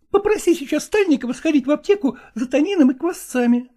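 high, fussing female voice; woman's voice. Acted.

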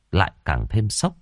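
ordinary delivery

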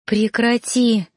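slow, drawn-out plea; pleading. Acted. Heroine begs Noan not to hurt his family, pleading slowly. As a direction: beg him to stop. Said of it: "взмолилась я".

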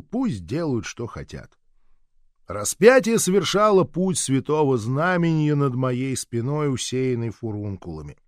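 plain reading voice

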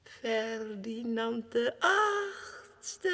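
slow, tearful proclamation; crying. Acted. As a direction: drag it out through tears. Madman proclaims himself king. (langzaam en huilend)

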